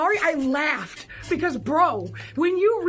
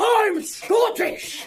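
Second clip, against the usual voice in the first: mild, played-down screamed line; 4 semitones higher than usual. Retelling a Super Sentai character's line to a lady; imitating a screamed line. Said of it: "the character literally screams in the lady's face".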